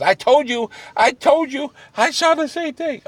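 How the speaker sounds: high-pitched mock panic; imitated frantic insistence. Corey says he saw the ghost too, imitating frantic insistence. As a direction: insist in a high, worked-up retold voice.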